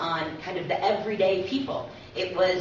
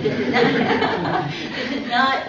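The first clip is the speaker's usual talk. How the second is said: laughing through the words, unvoiced at first; slowed, breathy laugh while correcting herself; 5 semitones higher, 6 dB louder, slower than usual. Real, not acted. Interviewer laughs at her own background, laughing.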